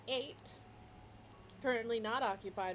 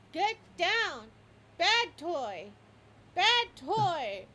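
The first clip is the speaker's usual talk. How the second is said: higher, louder scolding shout; dog barking orders; 7 semitones higher, 10 dB louder, much slower than usual. Retold or imitated. The dog shouting at the cat on the fence, loud scolding. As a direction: yell it like a bossy dog. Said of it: "and it says".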